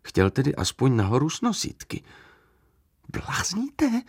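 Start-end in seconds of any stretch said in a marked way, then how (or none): 3.1-4.0 high incredulous yelp instead of growl; mock growl. A narrator's reading. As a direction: toss it off in disbelief. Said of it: "zahučel jsem". (nevěřícné zahučení)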